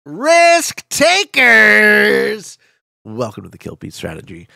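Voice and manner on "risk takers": high, booming show-opening greeting, last words stretched out; big drawn-out hype-man yell; hyped intro shout. Acted. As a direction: belt out the opening to the audience. Streamer's opening greeting to viewers.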